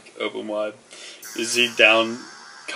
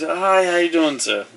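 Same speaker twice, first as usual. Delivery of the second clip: higher, louder friendly greeting; polite greeter; 8 semitones higher, 6 dB louder than usual. Acted. Newcomer shakes hands with the host, lifted greeting voice. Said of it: "He goes".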